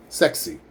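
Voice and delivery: sexy with a crisp K plus S in the middle; clear KS sound. Shown as a demonstration. Teacher showing the KS sound in sexy. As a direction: land the KS cluster in sexy cleanly. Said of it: "like a K and an S".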